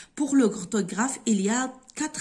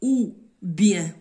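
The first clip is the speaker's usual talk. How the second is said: « Ou » hit louder before bien; ou stressed; 6 dB louder than usual. Shown as a demonstration. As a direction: lean on ou, falling. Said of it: "ou son accent". (insiste sur « ou »)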